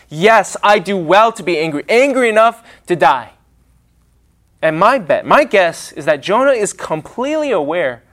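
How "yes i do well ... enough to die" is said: hammed-up petulant erupting "Yes"; pouting prophet erupts. Jonah erupting back at God, mildly petulant. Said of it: "The pouting prophet erupts".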